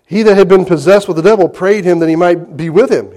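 formal King James reading; scripture reading. Acted. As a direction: read the verse out to the congregation. Reads scripture aloud.

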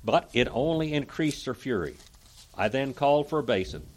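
declaimed first-person historical account; dramatic reading. A narrator's reading. Preacher reading Pilate's account to listeners, dramatic reading. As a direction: read it out with oratorical weight.

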